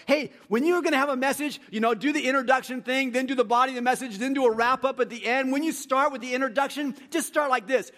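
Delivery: high, loud hammed-up instructor; mock seminary advice. Preacher mimicking a seminary teacher explaining sermons, hammed-up instructor. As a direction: parody the tidy sermon formula.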